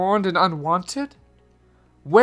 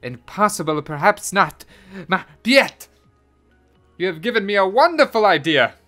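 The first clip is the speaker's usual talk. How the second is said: high, loud burst of elation; jubilant, raised-voice outburst; excited; 9 semitones higher, 9 dB louder than usual. A narrator's reading. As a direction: exclaim with mounting delight at a sudden idea. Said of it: "jumped up and danced Dochette".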